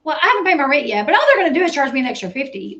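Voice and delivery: quick, careless imitation; mock nonchalance. Commentator mimicking a tenant about late rent, mock casual. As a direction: rattle it off as if it's nothing.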